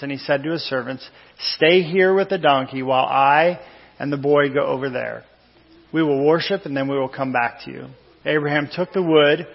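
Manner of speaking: measured, deliberate Bible reading; slow scripture reading. Real, not acted. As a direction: read the passage slowly, dwelling on key phrases. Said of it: "I'm gonna read it slow with you today".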